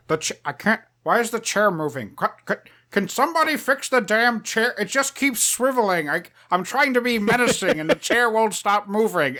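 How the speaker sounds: would-be menacing villain foiled by his chair; Doctor Evil. Retold or imitated. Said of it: "like a Doctor Evil bit from Austin Powers".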